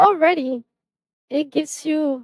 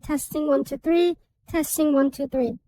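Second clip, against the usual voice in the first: pitched-up vocal; helium voice. Shown as a demonstration. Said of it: "And the speaker".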